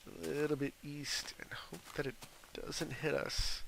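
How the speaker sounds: hushed whisper. Real, not acted. Gamer whispering while steering away from an earthquake. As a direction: whisper it hoping not to be noticed.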